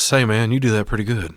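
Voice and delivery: lightly voiced celebrity impersonator; a hint of mock Elvis. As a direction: compliment him as a cheesy Elvis. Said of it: "Elvis says".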